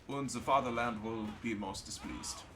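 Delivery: lightly hammed German accent; deliberate, mock-solemn German accent. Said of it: "I'm doing the German accent".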